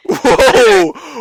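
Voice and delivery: high, loud protesting whoa; indignant surprise. Real, not acted. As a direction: cut in loudly, taken aback. Mock protest at being accused.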